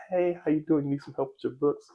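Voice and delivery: put-on high crinkly teen-boy voice; squeaky voice mid-puberty. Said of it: "That crinkly voice".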